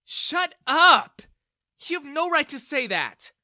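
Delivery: very high, loud furious yell; a daughter shouting at her father; shouting back. Acted. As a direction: shut him down. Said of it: "Bella intervened".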